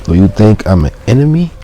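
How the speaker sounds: high, loud call through the door; loud shout. Acted. Mailman shouting at the janitor. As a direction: shout at the janitor to let you in. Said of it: "with a loud voice shouts".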